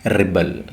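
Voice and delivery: "Rebel" as verb, ri-BEL, stress on the second syllable; "Rebel", rih-BEL. Shown as a demonstration. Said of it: "we pronounce it as rebel".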